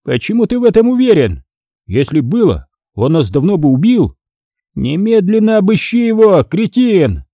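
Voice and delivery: boil over at the idiot; furious shout. A narrator's reading. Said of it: "наливаясь злостью, заорал Стригун".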